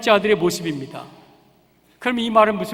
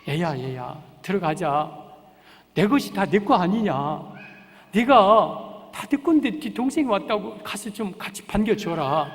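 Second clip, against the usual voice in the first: coaxing father. Acted. Father coaxing his angry elder son outside the house. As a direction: gently talk a sulking son round. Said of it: "큰아들을 달래요".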